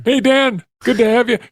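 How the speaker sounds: high, loud raspy caricature; Tony Tedesco. Shown as a demonstration. Producer greeting a guest, raspy impression. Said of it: "that's my Tony Tedesco impression".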